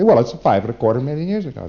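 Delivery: a touch of smug certainty, statement falling; mildly pleased with himself, a settled falling answer; satisfied. Retold or imitated. Preclear stating the date to the auditor, mildly satisfied. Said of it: "have them say rather satisfiedly".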